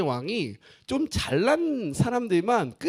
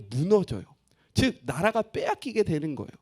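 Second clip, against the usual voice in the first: normal talking voice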